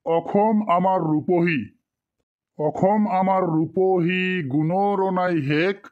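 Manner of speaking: teacher's measured classroom recitation; poem recitation. Shown as a demonstration. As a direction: show the student how the poem should sound. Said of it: "আমি একবার ভালো করে কয় দেই".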